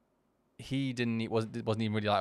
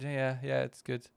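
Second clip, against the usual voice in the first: put-on kid's flat answer; 5 dB quieter, slower than usual. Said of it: "a bit more like".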